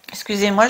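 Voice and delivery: coughing before speaking; clearing a cough; dry cough. Real, not acted. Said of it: "je tousse encore un peu".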